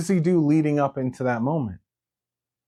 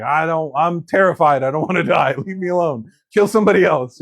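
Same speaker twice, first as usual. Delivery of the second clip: higher, louder panicky pleading; mock terror; 4 semitones higher, 4 dB louder than usual. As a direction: beg off in a comic panic. Peter panicking, denying martyrdom.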